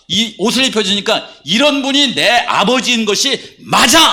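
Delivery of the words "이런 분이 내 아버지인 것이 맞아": slow, higher build to a punched "맞아!"; acted realization, deliberate and ending in a shout; prodigal son's affirmation. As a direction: declare it with growing conviction. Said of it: "이렇게 하는 거예요".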